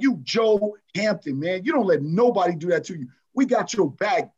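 mild hype, stretching out the name; retold team hype. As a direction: retell the team pumping up a teammate. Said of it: "we were going off and blowing him up".

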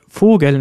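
Vogel as Swedish fågel, stress on the first syllable; unstressed E. Shown as a demonstration. Teacher asks learners to repeat Vogel, unstressed E. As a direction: say Vogel with a light, unstressed E at the end. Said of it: "Das E ist unbetont".

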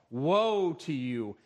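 "Woe" drawn out and hit hard, then falling; slow, weighty stress on "Woe"; punctuated beat. Shown as a demonstration. Preacher repeats the passage's refrain, "Woe" slowly punched. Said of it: "the punctuation that moves this passage".

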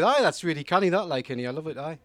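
lightly put-on Geordie accent; comic mimicking his own Geordie accent. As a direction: speak like a Newcastle student. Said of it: "should probably explain the accent".

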